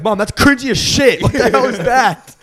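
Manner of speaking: put-on cringing kid. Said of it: "the kids were like".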